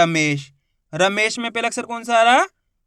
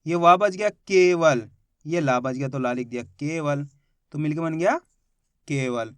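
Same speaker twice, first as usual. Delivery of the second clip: slow spelling-out; 5 semitones lower than usual. Shown as a demonstration. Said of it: "बचा कौन सा अक्षर".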